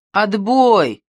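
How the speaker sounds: grumbled, irritated call-off; grumbling. A narrator's reading. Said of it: "проворчал Мазукта".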